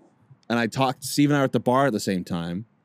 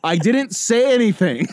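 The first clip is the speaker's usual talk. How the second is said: louder repeat; 9 semitones higher, 4 dB louder than usual. Retold or imitated.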